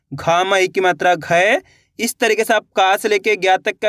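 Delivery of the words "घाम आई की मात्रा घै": slow, deliberate syllable-by-syllable spelling of कै खै गै. Shown as a demonstration. Teacher spelling out syllables slowly for pupils.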